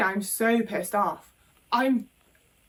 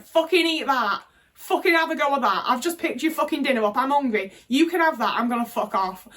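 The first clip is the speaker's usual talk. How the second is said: imagined angry outburst; 4 semitones higher, 3 dB louder than usual. Retold or imitated. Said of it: "What I wanted to do".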